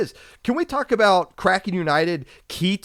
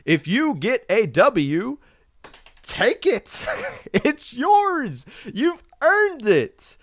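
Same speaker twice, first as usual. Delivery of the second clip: much higher, slow and emphatic; rousing; 8 semitones higher, much slower than usual. Real, not acted. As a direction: pump up the audience. Rousing encouragement to the audience.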